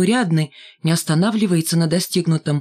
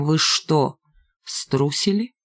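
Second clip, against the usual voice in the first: contemptuous rebuke; much slower than usual. A narrator's reading. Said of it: "Этот решительный окрик".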